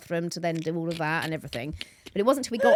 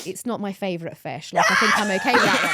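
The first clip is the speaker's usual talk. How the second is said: louder, laughing through the son's shrug-off; laughing retelling; 5 dB louder than usual. Retold or imitated. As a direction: laugh while quoting the boy's shrug. Son shrugs off loss, she laughs.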